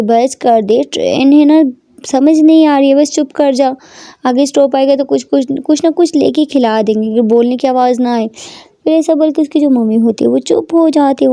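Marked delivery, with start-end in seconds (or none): 0.0-8.3 mild angry scolding. Acted. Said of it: "गुस्से में बोलती है".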